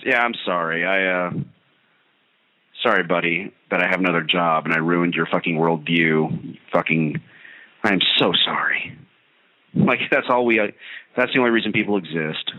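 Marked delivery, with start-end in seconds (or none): 0.0-9.0 mock apology. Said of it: "what am I supposed to do? Apologize?".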